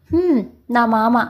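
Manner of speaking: slow, lightly mocking reply; sarcastic. A narrator's reading. Ishaan mocks Sakshi's question, slow sarcastic tone. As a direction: drag it out with a sneer. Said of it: "అన్నాడు వెటకారంగా".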